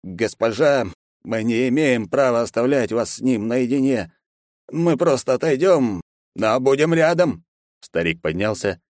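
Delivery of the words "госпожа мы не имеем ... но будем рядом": put-on slow, insistent pleading to the young lady; old servant. A narrator's reading. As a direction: loyal old man begging to stay close. (старый слуга, настойчиво)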